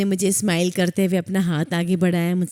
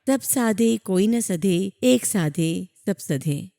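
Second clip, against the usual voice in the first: slow recitation; slower than usual. Shown as a demonstration. Reciting the guru's lesson.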